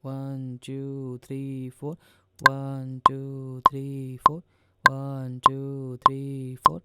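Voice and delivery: teacher counting four-four time aloud; counting beats. Shown as a demonstration. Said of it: "तो ये चलेगा आपका one".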